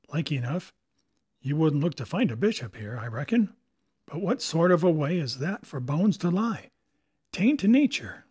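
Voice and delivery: lightly voiced sly old pirate; a hint of a wary sea cook; musing pirate, rising at the end; old pirate Silver.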